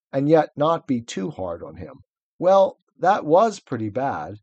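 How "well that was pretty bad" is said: put-on slow and careful, gentle girl; rather slowly. Lucy gently admitting the faun did wrong, slowly. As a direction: weigh each word so as not to hurt. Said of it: "said Lucy rather slowly".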